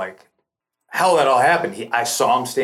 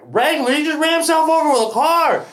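high-pitched retold disbelief; incredulous outburst. Storyteller retorting to the cashier, incredulous high outburst. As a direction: repeat it back in high, astonished protest.

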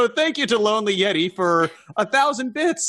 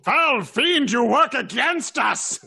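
hammy theatrical denunciation; mock dramatic accusation; 6 semitones higher, slower than usual. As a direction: denounce him like a stage hero. Mock villain denouncing DM.

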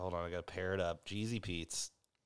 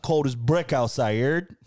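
punchy New York slang; New York accent; 3 semitones higher, 3 dB louder than usual. Acted. Host topping friend's New York lines, New York accent. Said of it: "That's New York".

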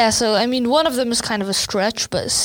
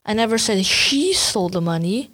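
"she" picked out with a rise; "she" stressed, rest level. Shown as a demonstration. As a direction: lean on "she". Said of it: "that she didn't do it".

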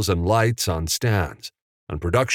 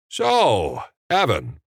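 mildly raised call; 5 semitones higher, slower than usual. A narrator's reading. Jimmy turning to Evan in front of Bill, calling. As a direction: call his name across, only a touch louder. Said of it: "Jimmy called loudly".

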